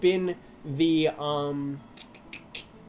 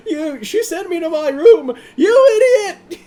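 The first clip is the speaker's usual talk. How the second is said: loud, high, slow laughing shout; idiot monster impression; 11 semitones higher, 10 dB louder, slower than usual. Imitating the dumb Monsters Inc. monster, high laughing yell. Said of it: "two idiot monsters from Monsters, Inc".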